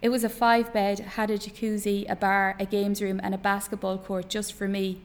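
author reading fiction aloud, measured pauses; story narration. A narrator's reading. Author reads an extract to an interview audience, story narration.

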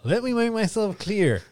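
drawn-out, emphatic statesman voice; Barack Obama. Acted. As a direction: stretch the words out in a bad presidential imitation. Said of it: "Here's my Barack".

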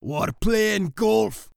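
drawn-out mouse reply; mice answering. A narrator's reading. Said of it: "they answered".

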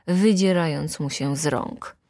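usual speaking voice

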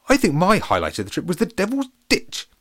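high, loud posh pancake voice; jolly posh captain, pitched well up. Acted. Captain thanks the pirate, high and posh.

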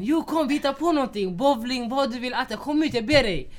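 a mock begging friend; pleading friend. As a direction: plead with him to come out. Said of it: "friend pleading on the phone".

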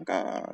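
crow's response. Shown as a demonstration. Crows talking to each other, low answering caw. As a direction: answer as the second crow, dropped down low. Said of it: "like a call and response".

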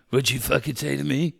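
put-on drunk yelling outside. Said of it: "angry drunk Heather Locklear".

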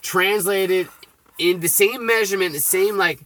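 insistent, worked-up explaining; yelling. Real, not acted. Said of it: "Sorry if I'm yelling at everybody".

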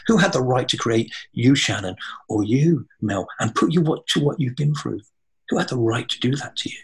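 indignant. Real, not acted. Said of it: "So I've always been angry".

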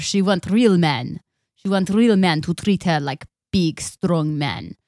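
lightly put-on Russian accent, slow; a hint of a Russian accent. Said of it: "Because I want to do a Russian accent".

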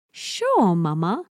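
put-on cute copied reply of a toddler; toddler's sing-song sure. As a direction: mom mimics daughter's chirpy yes. Mom voices daughter's reply.

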